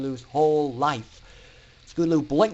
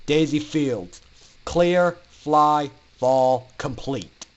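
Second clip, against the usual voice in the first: loud, clipped instructor roll call; 4 dB louder, much slower than usual. Acted. Instructor calls the next student loudly. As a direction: bark out names like a drill list. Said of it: "he called out again".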